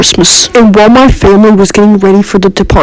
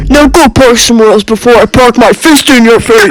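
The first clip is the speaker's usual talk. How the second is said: raised-pitch indignant threat; mock threat; 3 semitones higher than usual. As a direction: act out an indignant parking-lot threat. Acted parking quarrel with threat.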